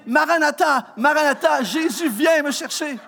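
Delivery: half-laughing cry for rescue; Maranatha, lightly hammed-up desperation; mock desperate plea. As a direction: plead to be taken away, laughing. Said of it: "j'avais envie de dire".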